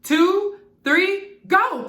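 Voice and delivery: high, loud starter call; race countdown. A narrator's reading. Starter Martian starts the race, loud countdown. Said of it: "cried the starter Martian".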